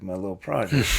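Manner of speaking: offended echo. Retold or imitated.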